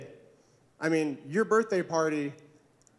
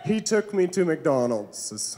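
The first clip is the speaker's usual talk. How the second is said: relishing repeat; slower than usual. Retold or imitated. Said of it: "that made my whole day".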